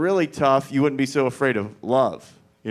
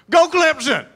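much higher, loud football yell; screamed cheer; 8 dB louder than usual. Retold or imitated. Comic showing the fan cheer, screamed high. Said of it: "scream out".

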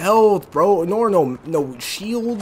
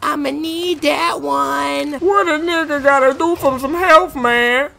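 shrieking jackpot winner; 7 semitones higher, slower than usual. Real, not acted. Spots shotgun, wants health.

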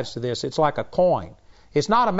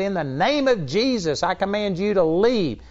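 raised, firm command in Jesus' name; mild mock command; 5 semitones higher than usual. Kenneth Hagin, fed up, commands the demon to leave. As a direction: order the demon out with authority. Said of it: "he got mad, and he said".

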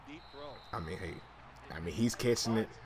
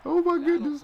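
higher, louder "oh my goodness"; shocked exclamation; 7 dB louder than usual. Real, not acted. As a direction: gasp it out in amazement. Reacting to a crazy play.

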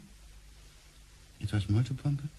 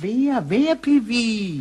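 higher, louder questions, slow on the second; a man questioning Piwi in louder disbelief; agitated disbelief; 11 semitones higher, 14 dB louder, much slower than usual. Acted. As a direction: demand to know who did it. Startled disbelief about the ring.

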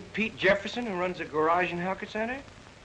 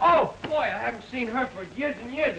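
high, loud burst of joy; excited exclamation; 5 semitones higher, 3 dB louder than usual. Acted. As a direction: blurt it out, delighted. Thrilled that his wife came.

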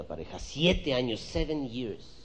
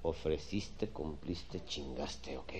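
mocking echo; 7 semitones lower, 8 dB quieter, much slower than usual.

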